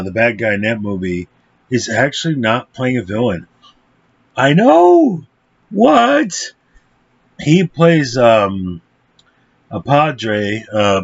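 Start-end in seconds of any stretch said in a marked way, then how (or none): 4.4-6.5 high, drawn-out fake astonishment; mock shock. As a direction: squeal it in pretend disbelief. Mock shock at casting twist.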